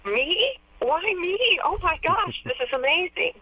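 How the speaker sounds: reliving her surprise at the induction; overwhelmed disbelief. Retold or imitated. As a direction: say it like the honor just hit you. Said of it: "I just thought".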